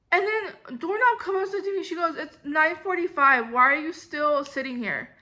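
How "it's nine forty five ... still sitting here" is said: condescending. Retold or imitated. Manager scolding the new hire for still sitting, condescending. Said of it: "Like, super condescending".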